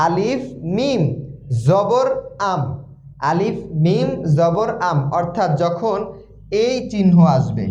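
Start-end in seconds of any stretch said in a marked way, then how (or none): 0.1-5.0 "আম" as one syllable closed on m; two letters joined. Shown as a demonstration. Teacher demonstrating two letters read together, spelled-out "আলিফ মিম জবর আম". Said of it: "দুইটা হরফ একসাথে বললাম".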